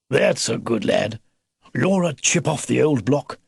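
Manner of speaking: lightly voiced old grandfather beaver; old beaver, hearty. Old beaver announcing a dangerous mission, lightly aged voice. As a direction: praise warmly, then brief them gravely.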